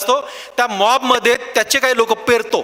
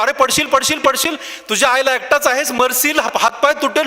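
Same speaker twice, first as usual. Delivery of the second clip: mild mock warning cries, raised in pitch; imitated crowd yelling; 3 semitones higher than usual. Crowd warns the boy climbing the pole, mild mock yelling. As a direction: pile up warnings like heckling onlookers. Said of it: "सगळे लोक खालचे ओरडतात".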